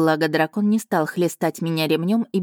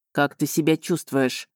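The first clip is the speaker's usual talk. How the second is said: caring; 3 semitones lower than usual. A narrator's reading. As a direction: ask gently, as if she might break. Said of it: "с заботой спросил дракон".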